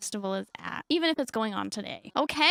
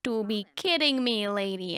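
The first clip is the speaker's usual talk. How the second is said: disbelieving; 4 semitones lower than usual. Acted. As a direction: stretch it out as an incredulous retort. Acted disbelieving reply in story.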